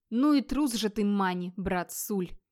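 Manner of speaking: mildly exasperated muttered curse to oneself; a touch of scornful irritation; irritated cursing. Acted. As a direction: grumble it crossly, slowing on the last words. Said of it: "раздражённо выбронился про себя Вигмар".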